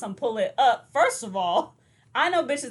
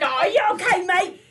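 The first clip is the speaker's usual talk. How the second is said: mock concern; 8 semitones higher, 7 dB louder than usual. Joking concern after her stumble.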